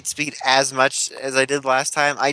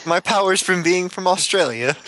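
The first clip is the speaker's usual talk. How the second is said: higher-pitched, badly faked Australian accent; terrible Australian accent; 6 semitones higher than usual. Podcaster riffing on Captain Boomerang's powers, terrible Australian accent. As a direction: pitch it up in a bad Aussie accent. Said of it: "That was a terrible accent".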